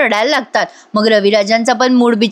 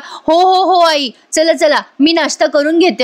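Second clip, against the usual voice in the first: eager; 5 semitones higher than usual. Retold or imitated. Greedy girl eager for breakfast.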